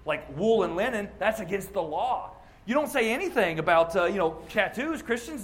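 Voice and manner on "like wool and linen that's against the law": accusing critic. Retold or imitated. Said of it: "hear people accuse us of".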